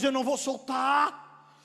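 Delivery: slow, drawn-out defiant cry; defiant refusal. Acted. Jacob refusing to release the angel, defiant cry. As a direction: stretch the final word in stubborn refusal.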